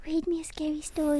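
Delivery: playful spooky whisper. Pretend. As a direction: hush it, tease a scary story.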